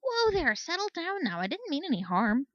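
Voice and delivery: calm her down, hoof held up; placating. A narrator's reading. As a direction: soldier mare backing off, soothing an angry unicorn. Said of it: "Flare placated".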